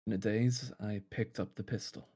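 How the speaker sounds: soft, subdued recounting of a dream; haunted narration. Acted. Dreamer recounts finding the pistol, hushed and haunted. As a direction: recall it quietly, as if reliving it.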